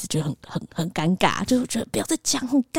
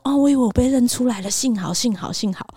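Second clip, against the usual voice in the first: lightly voiced self-important waiter, fading to relief; a hint of a fake celebrity sighing with relief; mock relieved waiter; 5 semitones higher than usual. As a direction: waiter mocked for acting like he was recognized. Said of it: "反正他就是那种很奇怪".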